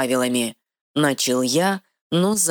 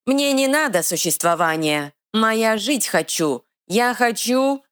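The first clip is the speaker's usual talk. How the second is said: troll growl; 8 semitones higher than usual. Acted. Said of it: "прорычал Эр".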